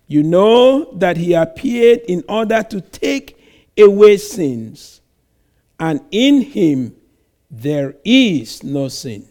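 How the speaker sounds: measured, solemn Bible reading from the pulpit; scripture reading. Acted. Preacher reading First John to the congregation, solemn and measured. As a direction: read the verses out with weight, line by line. Reads scripture passage aloud.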